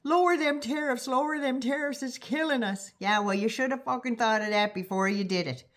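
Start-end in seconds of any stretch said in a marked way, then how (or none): 0.0-2.9 a touch higher mock pleading; begging whine. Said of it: "begging Trump".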